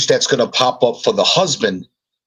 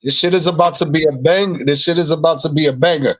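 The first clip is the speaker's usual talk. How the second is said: higher-pitched, pumped-up boasting; real excitement, pitched up; excited hype; 7 semitones higher, faster than usual. Real, not acted. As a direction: hype up the project to everyone. Hyping the show they are making.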